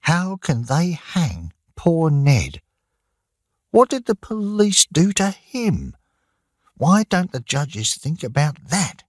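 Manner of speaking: high-pitched indignant outburst, slowing on poor Ned; pleading anger, voice climbing high; angry. A narrator's reading. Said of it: "said Maggie angrily".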